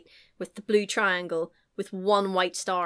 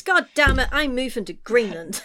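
mock frustrated outburst; 3 semitones higher, 5 dB louder than usual. Acting frustrated driver in traffic.

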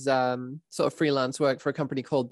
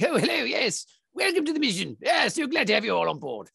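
put-on much higher, prim old-timey World War Two announcer; a clipped-sounding wartime radio host, pitched up high; old-timey dispatcher; 9 semitones higher than usual. Dispatch welcoming players to the mission in a high old-timey voice. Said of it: "proper old-timey World War Two".

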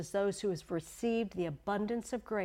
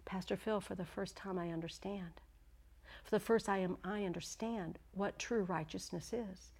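soft, understated tearfulness; hushed, halting, a touch of weeping; retold tearful realization; 7 dB quieter than usual. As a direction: imitate a moved man confessing quietly. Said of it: "he was weeping and weeping".

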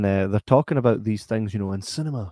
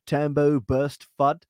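put-on slow Scottish slang in a different accent; Scottish words carefully said in a foreign-to-them accent; Scottish in another accent; 3 semitones higher, slower than usual. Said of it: "saying things Scottish with a different accent".

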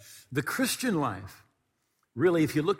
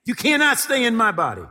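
loud, high commanding rebuke; laying a curse; 5 semitones higher, 8 dB louder than usual. Shown as a demonstration. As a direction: shout down the sickness with authority.

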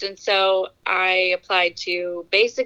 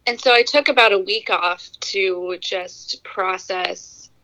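teary. Real, not acted. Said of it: "I'm a little teary".

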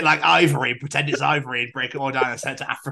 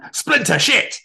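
high, loud yelps of pain; mock pained yelp; 12 semitones higher, 7 dB louder, much slower than usual. Reacting to an imagined splinter, mock pained yelping.

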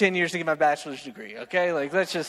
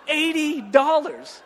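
slow, higher "Eighty dollars"; delighted disbelief; 7 semitones higher, much slower than usual. Real, not acted. Server marveling at his tip, slow and delighted. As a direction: savor the number in amazement.

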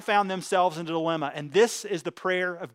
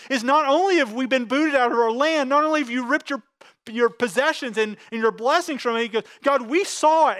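pleading prayer; 5 semitones higher than usual. Pretend. Preacher voicing Daniel's anguished prayer.

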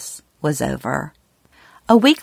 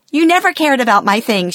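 much higher, louder retold yell, a bit fast; 8 semitones higher, 5 dB louder, faster than usual. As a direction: imitate the mom yelling in hurt. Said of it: "she yelled at me".

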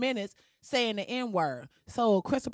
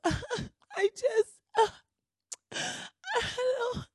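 laughing; 13 semitones higher, much slower than usual. Real, not acted. Cracking up mocking her crying.

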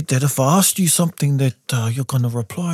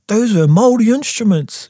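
high-pitched retold amazement; astonished realisation; 10 semitones higher, 3 dB louder than usual. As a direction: act out sudden disbelief, voice lifted high. Acts out own astonished realisation.

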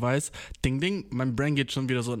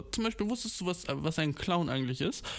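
know-it-all; 3 semitones higher, 3 dB quieter than usual. Retold or imitated. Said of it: "Ich war so".

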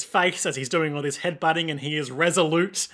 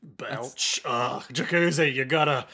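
lightly attempted impression of a belching cartoon drunk; a halting, half-successful cartoon character voice; Rick. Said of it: "that's my Rick. It's not very good".

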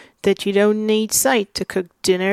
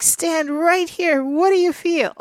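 higher, slow teasing prompt; mock eager question; 8 semitones higher, slower than usual. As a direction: draw him in, savoring it. Retells showing Tim the sun.

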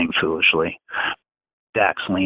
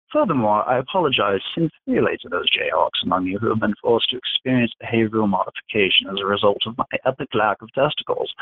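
pitched-up, taunting command voice; Dax dictating; 3 semitones higher than usual. Acted. Dax dictating a humiliating confession to Virgil, taunting and pitched up. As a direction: relish every insult he makes the boy say.

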